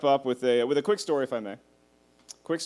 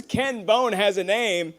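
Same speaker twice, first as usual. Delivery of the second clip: mock announcer; 5 semitones higher, slower than usual. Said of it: "So he says".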